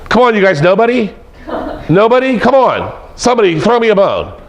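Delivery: mock pleading presenter. Presenter begging a silent audience for answers, mock pleading. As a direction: coax a silent room, half joking.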